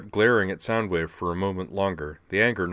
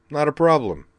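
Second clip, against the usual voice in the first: much higher, brash punk voice; scrappy robot kid; 8 semitones higher, 7 dB louder than usual. Acted. Rumble scolding his brother, brash high punk voice. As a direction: needle him like a cocky kid brother.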